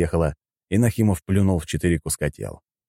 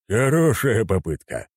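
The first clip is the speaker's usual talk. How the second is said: slow, raised, smiling put-down; 4 semitones higher, slower than usual. A narrator's reading. Admiral answering the kidnapper's challenge, smiling. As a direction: say it slowly through a smile. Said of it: "улыбнулся Пётр Борисович".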